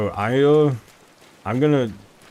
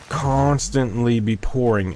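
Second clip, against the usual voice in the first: "Constantly" drawn out slowly and stressed; "Constantly" stretched for emphasis; emphatic repetition; slower than usual. Real, not acted. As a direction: lean hard on "Constantly", slow and deliberate. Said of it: "I want to emphasize".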